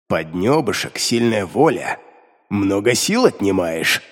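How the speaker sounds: low, slow displeased demon grumble; grumbling demon. A narrator's reading. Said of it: "недовольно проворчал Белиар".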